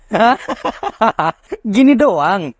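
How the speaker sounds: laughing through the words; slow amused laugh while talking. Real, not acted. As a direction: chuckle it out, amused. Laughing at the easy quest.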